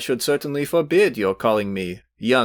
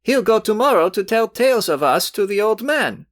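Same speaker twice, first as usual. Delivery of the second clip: hot indignation; 7 semitones higher than usual. A narrator's reading. Youth berates his rival before Velchaninov, rising heated indignation. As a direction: build a young man's heated tirade. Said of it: "turning hotly to Velchaninov".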